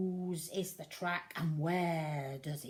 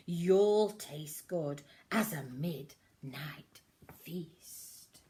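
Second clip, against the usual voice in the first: menacing whisper; 2 semitones lower, 5 dB louder, slower than usual. Acted. Child menacing mouse.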